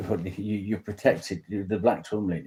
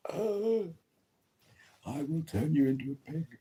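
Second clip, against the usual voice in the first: mock witch threat; 8 semitones higher, 4 dB quieter than usual. Mock witch curse at annoying person.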